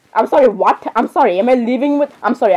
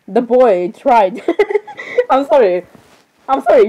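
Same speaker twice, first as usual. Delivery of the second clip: breaking into laughter. Real, not acted. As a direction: start reading, then crack up. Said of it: "you laugh at this".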